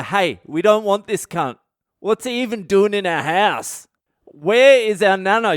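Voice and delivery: outraged family demanding their Nana back; indignant complaint. Retold or imitated. Family complains about wrong body.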